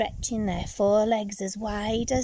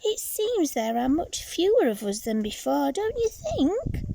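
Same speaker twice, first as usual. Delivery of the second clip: small tadpole voice; 6 semitones higher than usual. Acted. Tad speaking to her brother.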